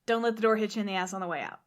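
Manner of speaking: loud, then a fast brush-off; bossy stepmother. Retold or imitated. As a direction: shoo her out the door. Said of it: "the mother's like".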